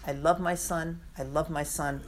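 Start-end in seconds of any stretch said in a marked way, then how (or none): 1.2-2.0 softer. Shown as a demonstration. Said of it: "God says three times".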